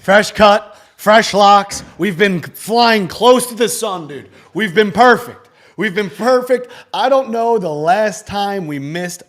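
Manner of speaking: loud, upbeat boasting about the streak; excited bragging. Real, not acted. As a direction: hype it up loud and proud.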